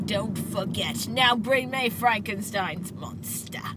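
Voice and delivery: slow whispered villain line; mock villain. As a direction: whisper it slowly like a deadpan villain. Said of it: "saying ridiculous lines with a".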